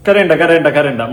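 sarcastic loud scolding of the tears; mock don't cry. Mocking the crying mother.

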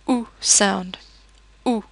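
OO said as a very rounded vowel; rounded French oo. Shown as a demonstration. Teacher shows learners the French O U sound, very rounded oo. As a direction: say "oo" with tightly rounded lips. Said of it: "It's very rounded".

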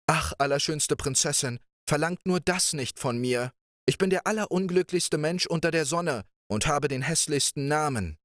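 mournful Pechvogel. Acted. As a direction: plead with the princess, sorry for himself. Pechvogel laments.

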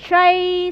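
"Train" stressing the long A vowel; model pronunciation. Shown as a demonstration. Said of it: "mình sẽ đọc âm A". (đọc mẫu "Train" nhấn âm A dài)

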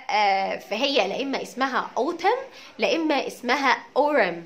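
autumn with t, then autumn flapped as ore; autumn both ways. Shown as a demonstration. Teacher giving students a choice of two autumns. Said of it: "as you like بقى".

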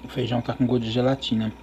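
talking with food in mouth; words slightly muffled by chewing; chewing while talking. Real, not acted. Seen 1: Eating throughout; lips pressed, cheeks working between bites while talking.

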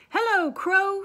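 high, loud greeting shout. Acted. Toad shouting to the crow from his sled, high and loud. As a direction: shout up to the bird. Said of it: "shouted Toad".

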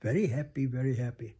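imitated emphasis on "Very happy, very happy"; first "Very happy" lifted, second dropping back; Swami's emphasis. Showing how Louise echoed the guru's English, emphatic. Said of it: "the way Swami would emphasize".

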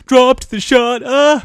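very high, loud crowing; gloating shout. Real, not acted. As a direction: celebrate the move at a high pitch. Crows over a drop shot.

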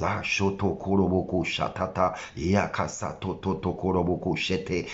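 imitating tongues, rattled off lightly; a light parody of tongues prayer; mock praying in tongues. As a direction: babble like someone speaking in tongues. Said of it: "four hours praying in tongues".

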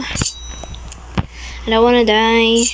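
very slow, stretched whine of "I don't wanna die"; slow-motion plea "I don't wanna die"; drawn out. Real, not acted. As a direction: drag every word out slowly.

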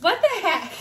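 high, loud, delighted disbelief; real surprised delight at friend's gift; surprised exclaim. Real, not acted. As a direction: cry out the name in shock.

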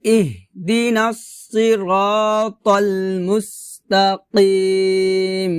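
slow, drawn-out tajweed recitation; measured teaching recitation; Quran recitation practice. Shown as a demonstration. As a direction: recite syllable by syllable with long vowels. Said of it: "আবার বলি প্রথম থেকে".

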